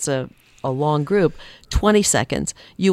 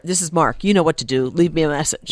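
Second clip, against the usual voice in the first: brisk, firm outgoing message; curt voicemail greeting; 3 dB louder than usual. Retold or imitated. Man's voicemail telling callers what to do, curt. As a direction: rattle off a no-frills voicemail greeting. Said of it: "You just leave a very brief message".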